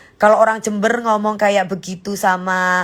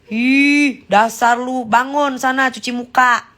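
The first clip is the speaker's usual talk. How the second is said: higher-pitched, teasing telling-off; mock scolding; 3 semitones higher than usual. Streamer telling a sleepy viewer off, mock scolding. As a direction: scold playfully in a raised pitch.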